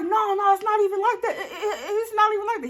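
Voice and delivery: high stammering with a nervous laugh. Retold or imitated. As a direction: caught out, laughing it off. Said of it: "He's stuttering stuff".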